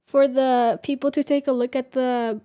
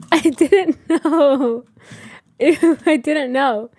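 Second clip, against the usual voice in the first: slow, lightly voiced sulky little kid; mock pouting nephew; 3 dB louder, slower than usual. Aunt imitating her pouting nephew, slow and sulky. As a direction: drag it out like a child caught out. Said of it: "And he, like".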